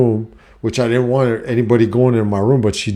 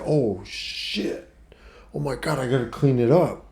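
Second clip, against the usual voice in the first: hushed, higher alarmed whisper; panicked whisper; 3 semitones higher, 8 dB quieter than usual. Retold or imitated. Man alone after spilling water, panicked whisper. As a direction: gasp it out in quiet panic. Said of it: "and I was like".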